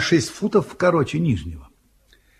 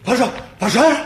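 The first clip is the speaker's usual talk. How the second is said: alarm shout; 5 semitones higher, 3 dB louder than usual. Acted. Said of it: "кричите: «Пожар!»".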